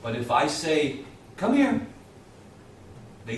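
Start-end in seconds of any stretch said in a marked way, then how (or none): 1.4-1.9 high, loud call to a dog. Shown as a demonstration. Owner getting his dogs to run over, high loud call. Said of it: "my dogs understand tone of voice".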